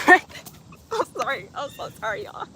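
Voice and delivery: laughing too much to read on; can't keep a straight face; cracking up. Real, not acted. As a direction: break into laughter while apologizing. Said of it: "could not read that with a straight face".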